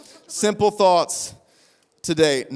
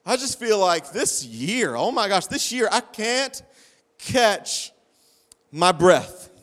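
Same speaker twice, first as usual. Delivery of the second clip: imitating a reluctant, softer admission; subdued retelling of a weary confession; guilty confession; 4 dB quieter than usual. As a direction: confess it quietly, as if out of breath. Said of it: "you could almost feel the guilt in their voice".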